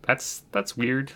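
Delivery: slow, hesitant, playing it cool; awkward. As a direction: stall while embarrassed. Retold awkward moment card declined.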